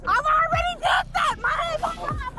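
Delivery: frantic shout; panicked yell at officer; scared and angry. Real, not acted. Woman shouting during arrest.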